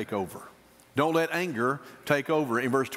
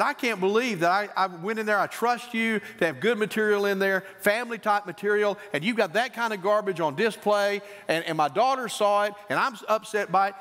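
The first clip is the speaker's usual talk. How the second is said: higher-pitched, aggrieved retold rant; angry complaint; 4 semitones higher than usual. Upset father phoning the bookstore supervisor, angry. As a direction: pour out a hurt customer's grievance. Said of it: "I was angry when I talked to the supervisor".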